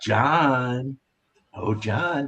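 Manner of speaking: creepy voice with the name drawn out. Retelling the devil talking to Constantine: creepy Peter Stormare Satan voice. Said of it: "in the creepiest, you know, and he's like".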